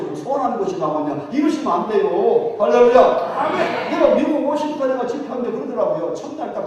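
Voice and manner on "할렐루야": 할렐루야 slow, drawn out and loud, rising at the end; drawn-out rising hallelujah call. Real, not acted. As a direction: stretch 할렐루야 out to rouse the congregation. Preacher calls for response.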